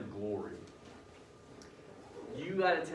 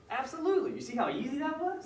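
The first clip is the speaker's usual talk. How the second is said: excited praise; 14 semitones higher, 4 dB louder than usual. Real, not acted. Student answers, teacher praises.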